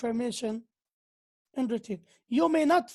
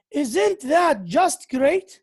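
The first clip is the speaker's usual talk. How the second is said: slow, loud sarcastic delight; loud, drawn-out sarcasm; 6 dB louder, much slower than usual. Shown as a demonstration. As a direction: stretch out the mock praise. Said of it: "Sarcastic, used to describe".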